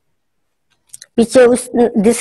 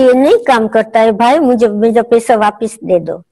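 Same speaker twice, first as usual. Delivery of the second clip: calm request. Shown as a demonstration. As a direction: gently ask for the money back without anger. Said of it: "शांति से उसको बोलती".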